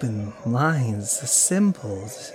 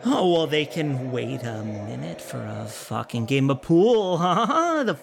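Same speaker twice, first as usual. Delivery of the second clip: higher, louder, mocking irritation; annoyed outburst; 4 semitones higher, 3 dB louder than usual. Man lashes out at his friend with irritated scorn. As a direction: scoff at her, then push back.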